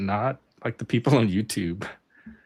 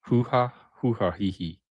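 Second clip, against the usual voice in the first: robot laugh. Pretend. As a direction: laugh like a clunky machine. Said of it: "whoever can do the best robot laugh".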